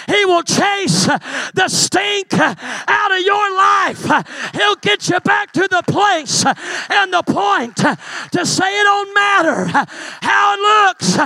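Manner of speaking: full-force preaching. Acted. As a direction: build the shout to the peak.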